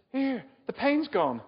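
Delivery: high, loud, slow mock Birmingham accent; a failed try at a Brummie voice; attempted Brummie. Young woman telling the preacher her pain is gone, in mock Brummie. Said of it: "In Brummie, I can't do Brummie".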